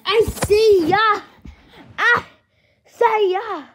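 high, drawn-out farewell call; loud sing-song goodbye. Real, not acted.

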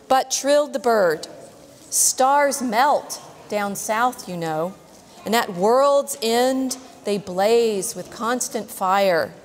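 slow, rhythmic verse reading; poem reading. Acted. Teacher reading the albatross's verse to kids, slow and rhythmic. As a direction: let each line ring out slowly.

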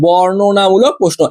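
বর্ণনামূলক প্রশ্ন drawn out very slowly; slow emphatic repeat. Shown as a demonstration. Tutor telling students to skip সমাস, very slow emphasis. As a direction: linger on বর্ণনামূলক প্রশ্ন to drive it home.

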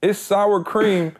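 laughing through the words. Real, not acted. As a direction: giggle while telling it. Laughing while retelling reaction.

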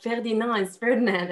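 first Ferdinand French fair-dee-NAHN, second Ferdinand English FUR-di-nand; French versus English pronunciation. Retold or imitated. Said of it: "but with the French accent".

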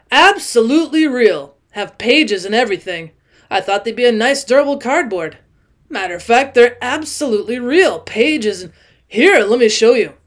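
put-on loud, emphatic tipsy old man voice; a drunk guest insisting, too loudly; drunk owl-eyed man. Tipsy man to Jordan, loud and insistent.

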